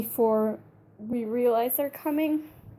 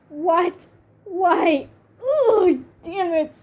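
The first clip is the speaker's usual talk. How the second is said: high, exasperated outburst; upset fan protest; angry disbelief; 6 semitones higher, 4 dB louder, much slower than usual. Real, not acted. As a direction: cry out in frustration, louder on the groan.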